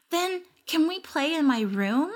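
put-on high, hopeful child voice; eager little girl. A narrator's reading. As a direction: bounce on it like a six-year-old.

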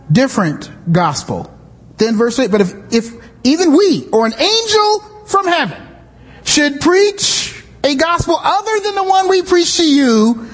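preacher reading Galatians aloud; scripture reading. Acted. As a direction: read the passage with weight.

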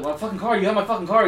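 high-pitched heated accusation, retold; mock angry yelling. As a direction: imitate a kid yelling about being robbed. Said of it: "He's like, yelling at the guy".

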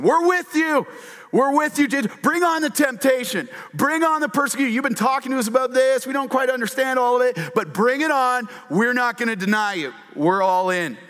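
very high, loud, cheering promise; rally behind Jesus like a fired-up crowd; eager group pledge. Retold or imitated. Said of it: "they all said the same".

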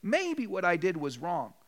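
imitating a bad apology; mock excuse apology. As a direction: drag out a half-hearted excuse. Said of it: "You avoid if, but, and maybe".

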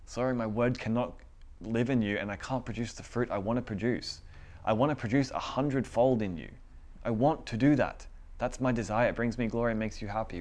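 voicing God. God's desire voiced in sermon.

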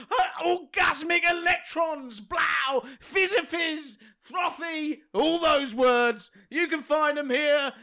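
high, excited hype-man shouting. Pretend. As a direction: pump the crowd up like a hype man. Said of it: "your hype begins now".

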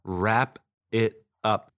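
slow, spaced-out delivery, word by word; playfully drawn-out repeat; drawn-out echo. Pretend. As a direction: stretch each word out with gaps. Slow echo of co-host's phrase.

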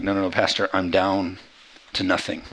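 low, softened protest; a touch of defeat, voice sunk low; mock dejection. Churchgoer tells the pastor they have nothing, mildly dejected. Hearer pleading hopelessness to pastor.

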